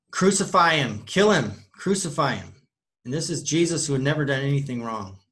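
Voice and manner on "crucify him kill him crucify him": mock crowd yell, louder. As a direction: call out like a hostile crowd, not full force. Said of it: "they all were yelling".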